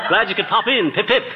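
lightly hammed British toff accent, laughing as he fixes pop in; a touch of British toff, now getting it right; mock British accent, corrected. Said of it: "I mean, uh".

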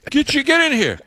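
high, excited mock coworker voice; hammed-up Yankee coworker calling out; New England coworker. Coworker hunting for a Southerner, high mock voice. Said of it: "and he goes".

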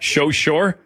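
"So sure" said as "sho shore"; mimicked slushy s. Host teasing caller about the slip, slushy "So sure". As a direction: tease with a slushy sh on "So", matching "sure". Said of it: "I did a little slushy".

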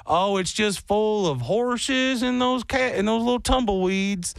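lightly mocking Texan accent; outsider's mock Texan. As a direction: caricature Texas as outsiders see it. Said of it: "people look at Texas and they go".

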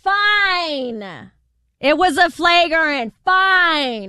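grudging admission, drawn out; emphatic falling concession; exaggerated concession. Real, not acted. Grudgingly concedes the flagrant call.

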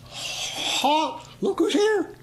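high, squeaky shout of halt; hammed-up nervous guard call; mock sentry shout. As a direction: yell the wrong password with gusto. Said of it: "and I hear".

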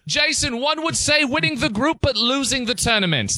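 high-pitched mock-English pundit; English accent. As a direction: put the question in a hammed-up English accent. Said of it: "do this in an English accent".

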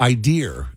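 "Idea" said as "idear"; Boston R-ending idea. Retold or imitated. Host repeating a Boston example, "Idea" with an R on the end. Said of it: "is another thing you hear".

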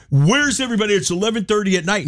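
imitating an exasperated Boston guy; high, fed-up Boston rant; Boston accent. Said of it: "in the Boston accent, he was doing it".

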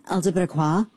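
laughing while parroting the letters; laughing mock. Host laughing while parroting the mom's letters. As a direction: scoff through a laugh. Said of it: "mocking her again".

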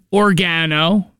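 oregano said or-GAN-o; imitated odd pronunciation. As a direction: stress the GAN in oregano, lifting at the end. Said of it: "this is an Italian herb".

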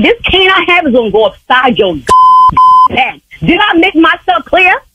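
high, heated telling-off; angry threat. Real, not acted. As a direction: lay down a furious warning. Enraged threat after excusing herself to Lord.

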